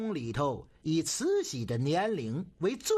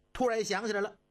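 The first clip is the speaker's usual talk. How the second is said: usual speaking voice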